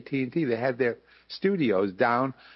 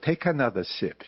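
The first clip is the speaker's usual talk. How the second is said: Jewish dialect mama; 2 semitones higher than usual. Retold or imitated. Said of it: "how he pitched the Nize Baby".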